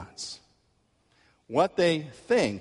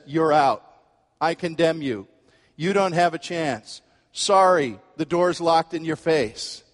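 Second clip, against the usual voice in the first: harsh judge; 4 semitones higher, 5 dB louder than usual. Pretend. Preacher voices a condemning God.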